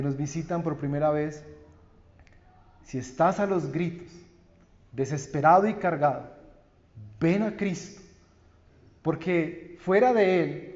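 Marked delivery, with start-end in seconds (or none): none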